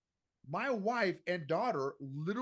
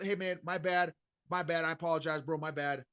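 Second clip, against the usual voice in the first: offhand bro apology, the wrong way; casual brush-off. Shown as a demonstration. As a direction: toss it off like it's no big deal. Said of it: "No, no, no".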